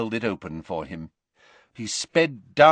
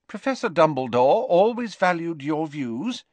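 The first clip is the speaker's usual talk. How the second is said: kindly; 8 semitones higher than usual. Acted. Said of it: "said Professor McGonagall kindly".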